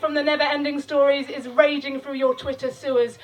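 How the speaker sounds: spoken-word poem, declaimed; rhythmic spoken-word delivery; poem recital. Acted. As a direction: perform the poem to the crowd.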